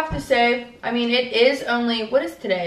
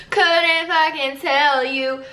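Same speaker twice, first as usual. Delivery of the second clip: stretched slow and a bit higher; slow drawn-out repeat; 4 semitones higher, much slower than usual. Pretend. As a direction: drag each word out.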